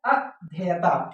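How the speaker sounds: slow, careful अध्येयता; correct pronunciation. Shown as a demonstration. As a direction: stretch अध्येयता out syllable by syllable. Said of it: "होता क्या है?".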